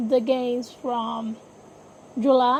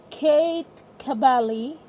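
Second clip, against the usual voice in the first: Italian accent. Real, not acted. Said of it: "my Italian accent came out".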